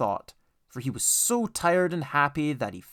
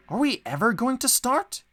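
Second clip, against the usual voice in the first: mildly cross; 10 semitones higher than usual. A narrator's reading. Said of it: "Edward began to get cross".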